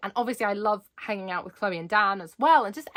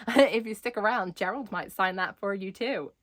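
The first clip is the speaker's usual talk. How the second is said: terrible impression. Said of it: "this is a terrible impression".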